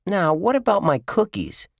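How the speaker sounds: put-on high-pitched boyish challenge; indignant demand. A narrator's reading. Josh waves the empty tin at twins, indignant demand. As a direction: demand answers from little brothers. Boy confronts brothers over cookies.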